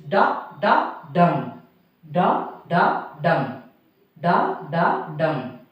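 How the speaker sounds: "da da DUM", weight on the last beat; anapest beat. Shown as a demonstration. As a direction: chant "da da dum" in measured, separated beats, landing on "dum". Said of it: "Two unstressed syllable followed by stressed syllable".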